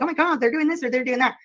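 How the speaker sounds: high mocking "oh my God"; mock whining. Mocking haters who cry online, whiny parody. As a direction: parody a drama queen. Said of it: "they go cry about it".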